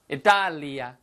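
native Italian pronunciation of 이탈리아; playful Italian-accented country name. Acted. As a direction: say it like an Italian would. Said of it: "이렇게 발음을 하겠죠".

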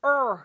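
er, tongue tense on both sides, not touching; a held tensed er; R sound. Shown as a demonstration. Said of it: "R 발음은 혀가 어디에도 닿지 않지만". (er, 양쪽을 긴장시킨 R 소리)

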